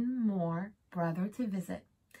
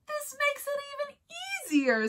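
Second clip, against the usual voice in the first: wolf voice; faster than usual. Acted. Sly wolf gloats.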